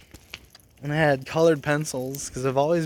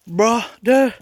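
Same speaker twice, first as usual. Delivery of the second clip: sarcastic retort; 8 semitones higher, 7 dB louder than usual. Retold or imitated. Mocking retort to principal.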